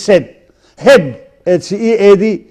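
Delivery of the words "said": "said" pronounced sed; short e in "said", rhyming with bed; short E vowel. Shown as a demonstration. Teacher explaining the spelling, "said" pronounced sed. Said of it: "It's pronounced as".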